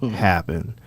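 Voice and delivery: put-on slow American hick accent; drawn-out rural American hick voice. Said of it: "hick accent".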